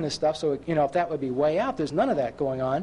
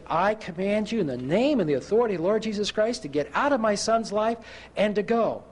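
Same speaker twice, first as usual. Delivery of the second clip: firm, higher-pitched retold command; commanding prayer; 5 semitones higher than usual. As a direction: order the spirit out with authority. Father commands demons to leave son.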